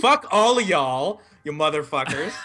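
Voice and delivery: slow, drawn-out sassy mock tirade. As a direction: stretch it out with playful sass. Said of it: "you got real sassy there".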